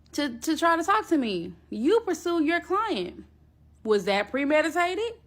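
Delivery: indignant comeback; heated. Real, not acted. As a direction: hammer each point back at her. Heated rebuttal to the ex.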